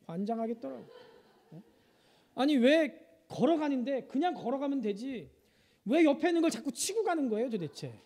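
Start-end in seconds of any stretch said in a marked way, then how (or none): 5.8-7.9 pitched higher, mock exasperation; exasperated father complaining about his clumsy daughter. Real, not acted. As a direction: complain in disbelief.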